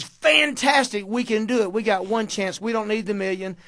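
retold elation. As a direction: imitate an elated boss seizing on slim odds. Retelling boss's thrilled reply to odds.

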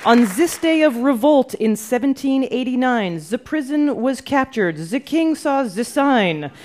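a light, hammed-up French accent on the rhyme; mock French accent. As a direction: read the verse like a Frenchman in Brooklyn, lightly. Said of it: "That was a terrible French accent".

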